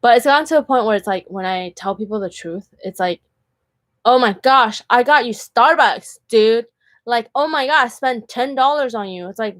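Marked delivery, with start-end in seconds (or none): 4.1-9.3 higher-pitched imitation of an indignant date; mildly hammed-up freak-out; mock freaking out. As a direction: act out someone making a fuss. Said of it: "freaking out".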